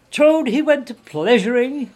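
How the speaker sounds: high, loud vengeful shout; furious yell. A narrator's reading. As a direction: throw the taunt back at full voice. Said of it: "he yelled".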